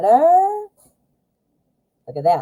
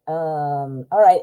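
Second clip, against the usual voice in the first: chewing gum; 4 semitones lower, slower than usual. Real, not acted. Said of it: "ignore the gum in my mouth".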